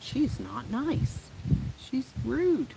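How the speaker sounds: high, slow, whiny mock complaint; mock viewer. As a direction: whine it like a prissy viewer. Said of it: "People are gonna watch this and be like".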